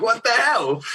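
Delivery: high, laughing "what the hell"; laughing disbelief. Retold or imitated. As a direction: giggle through the amazement.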